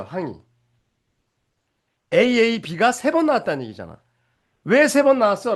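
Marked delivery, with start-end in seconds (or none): 4.6-5.5 curious student's question. Retold or imitated. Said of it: "라고 물으면".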